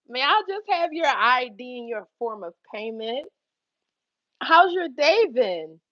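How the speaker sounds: slow, exaggerated customer-service voice; overly polite, dragging it out; sarcastic politeness. Checking the manager in, slow sarcastic politeness. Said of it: "But I'm being sarcastic".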